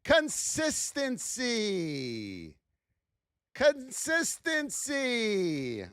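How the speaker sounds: slow, soft, drawn out consistency; drawn-out answer. Shown as a demonstration. Answering the class, slow and soft. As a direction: stretch Consistency slowly and softly. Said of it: "what number two is".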